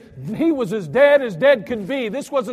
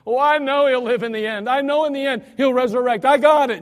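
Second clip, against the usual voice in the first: higher and louder, quick assurance; eager Mary; 4 semitones higher, 5 dB louder than usual. Acted. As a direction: brush it off, sure of herself. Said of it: "Mary comes running to him and says".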